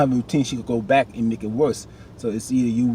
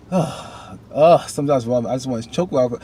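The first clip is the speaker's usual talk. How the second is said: exasperated rant; 2 semitones higher, 4 dB louder than usual. Real, not acted. Fed up with Ralph Angel.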